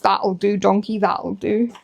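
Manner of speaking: a hint of Shrek's accent; understated Shrek-accent movie quote. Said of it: "you have to do it in the accent".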